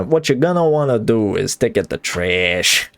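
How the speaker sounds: lightly voiced tutorial host; game tutorial YouTuber. Player talking themselves through digging trash, mild tutorial-YouTuber voice. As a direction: explain it with a hint of YouTube tutorial. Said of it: "as a game tutorial YouTuber".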